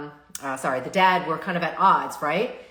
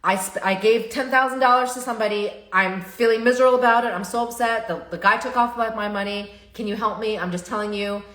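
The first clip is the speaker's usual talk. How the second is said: higher and louder, pleading to the family; earnest confession; 3 semitones higher, 4 dB louder than usual. Shown as a demonstration. Child confessing money loss to family, a pleading confession. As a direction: open up to mom and dad, upset and honest. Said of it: "you're literally facing them saying".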